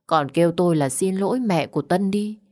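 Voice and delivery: plain reading voice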